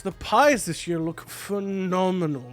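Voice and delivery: high, excited gushing voice; Titus gushing. Acted. Host Titus praising the baker's pies, high and gushing. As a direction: fawn over her pies in a high, bright-eyed voice. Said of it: "Titus is talking to her and going".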